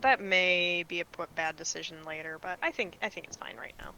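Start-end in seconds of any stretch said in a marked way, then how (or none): 3.0-3.9 hushed doubtful whisper. Real, not acted. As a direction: breathe it quietly to yourself. Unsure about decision.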